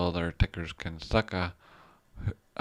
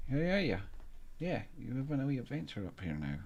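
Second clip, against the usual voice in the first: pet talk; 7 semitones higher, 7 dB quieter than usual. Real, not acted. Owner cooing at the cat on camera, high and soft. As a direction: coo at the cat, pitched up and soft.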